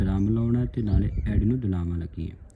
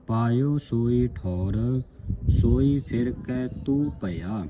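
slow, measured verse reading; scripture recitation; slower than usual. Shown as a demonstration. Teacher reads Kabir's saloks for the congregation, slow recitation. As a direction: draw the vowels out, reciting evenly.

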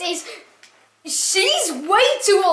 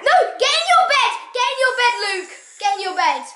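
bossy order; 5 semitones higher, faster than usual. Real, not acted. Bossing brother to bed.

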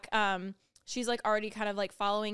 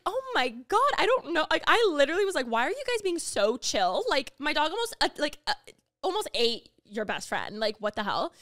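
higher, louder disbelieving rant; bewildered outburst; 5 semitones higher, 6 dB louder than usual. Retold or imitated. To Heath and Mariah about the near bite, an incredulous outburst. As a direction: blurt it out, baffled. Retelling own bewildered reaction.

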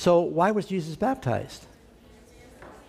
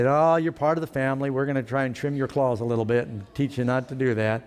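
gentle reassurance; 3 semitones lower than usual. Retold or imitated. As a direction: reassure the kitty kindly. Patient owner reassures cat.

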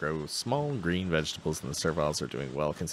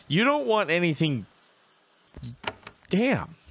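exasperated; 10 semitones higher, 5 dB louder than usual. Pretend. Shop refuses every item.

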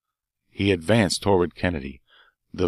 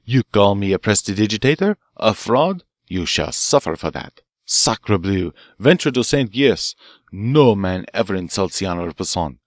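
loud furious Frenchman, louder on each insult; enraged outburst; 4 dB louder than usual. Acted. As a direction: spit it out, offended honor. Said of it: "his face livid with rage".

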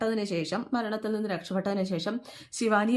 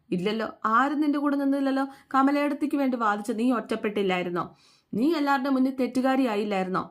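louder, higher reproachful taunt; voicing the husband's heated rebuke in a retold fight; 5 semitones higher, 4 dB louder than usual. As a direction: throw her isolation back at her, raised. Shankar taunts Gauri in quarrel.

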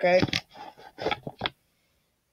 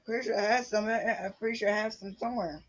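muttering to self; 10 dB quieter than usual. Real, not acted. Muttering to himself while searching.

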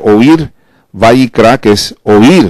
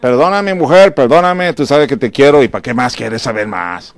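lightly hammed careless husband; offhand apology; 2 semitones higher than usual. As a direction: shrug it off impatiently. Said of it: "¿Ok, Roberto?".

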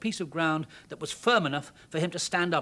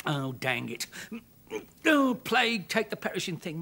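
muttered; 3 semitones higher than usual. Acted. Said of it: "muttered Mister Jones".

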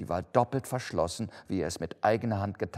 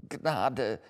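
higher, begging for mercy; a pitched-up plea from someone on their knees; Flehender Ausruf; 5 semitones higher than usual. A narrator's reading. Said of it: "rief er". (erhöhter, flehender Ausruf)

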